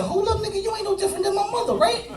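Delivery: high-pitched panicked whine, fast; squeaky high protest. Acted. Son begging his father not to send him back, high squeaky whine. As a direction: squeal the protest like a scared kid. Frightened kid pleading with father.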